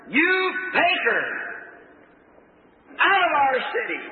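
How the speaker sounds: high-pitched crowd heckle; hollered jeer. Retold or imitated. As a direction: holler it like an angry mob. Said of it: "Some of them hollered".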